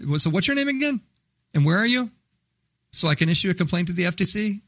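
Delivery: high, fast, pushy questions back at the caller; mock indignant grilling. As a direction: pepper the telemarketer with fake-earnest questions. Grilling a telemarketer on the phone.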